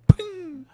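high, ringing ping; imitated ping. Fan voicing an anime move, imitated ping. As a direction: sound out a high attack ping.

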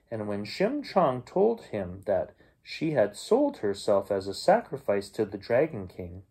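put-on gentle storyteller reading to children; bedtime story reading. A narrator's reading. Uncle reading a folk tale to young listeners, storyteller voice. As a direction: read it like a bedtime tale for kids.

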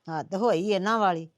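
low, soft grumble; muttered exasperation; grumbling to oneself. Acted. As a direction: complain under your breath. Grumbling to herself, left alone.

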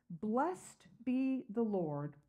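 Blessed drawn out slow; slow emphatic praise. Acted. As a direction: stretch out Blessed be the Lord slowly. Slowed praise line in reading.

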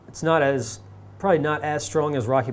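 words around a cigar; speaking while puffing cigar; talking with cigar in mouth. Real, not acted. Seen 0: wide shot; grey-shirt man holds cigar at lips until 2.4.

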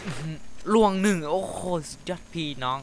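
high, loud hype after a kill; loud high victory whoop; excited cheer. Real, not acted. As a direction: cheer the play to viewers. Big play cheer.

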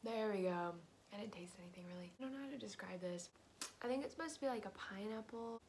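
lollipop briefly in mouth; talking while tasting candy. Real, not acted. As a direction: sour grimace while speaking. Seen 0: Holds lollipop throughout; briefly in mouth around 2.1–2.4, grimacing at taste.

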